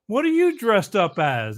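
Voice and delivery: put-on high, slow sweet old lady voice; little old lady. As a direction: coo at the kid like a sweet old granny. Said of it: "She goes".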